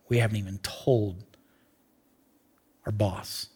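very soft, low voice with long pauses; hushed preaching. Real, not acted. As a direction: let it sink almost to a whisper, phrase by phrase. Hushed, grave sermon passage.

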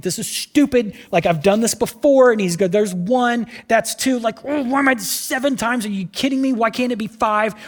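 high, exasperated griping; grumbling complaint. Acted. Naaman complaining while dipping in the river, exasperated. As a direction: sulk through each dip.

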